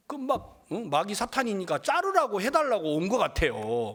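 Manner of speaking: normal talking voice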